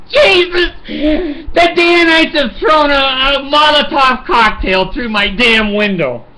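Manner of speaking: panicked high exclamation; alarmed. Retold or imitated. Old man blaming the Danites for the fire, panicked.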